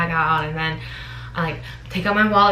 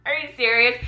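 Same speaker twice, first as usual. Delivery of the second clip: excited disbelief; 12 semitones higher than usual. Retold or imitated. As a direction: shriek it, overjoyed and shocked. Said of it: "I was like".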